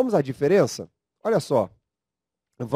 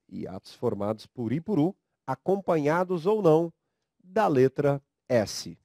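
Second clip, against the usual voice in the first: slow dictation. Shown as a demonstration.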